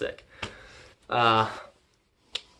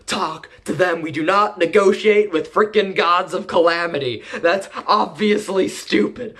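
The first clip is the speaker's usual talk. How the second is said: mock angry rant; 5 semitones higher than usual. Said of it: "is like".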